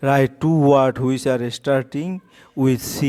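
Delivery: drawn out, word by word; very slow teacher reading; very slow dictation. Shown as a demonstration. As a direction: spell out the task slowly for the class. Teacher reads the question slowly.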